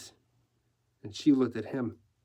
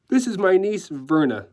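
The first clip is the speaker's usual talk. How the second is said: decorator; 6 semitones higher, 6 dB louder than usual. Acted. Decorator introduces his niece.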